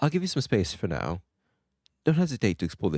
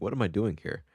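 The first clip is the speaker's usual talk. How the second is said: mock confusion; 3 semitones higher than usual. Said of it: "You just be like".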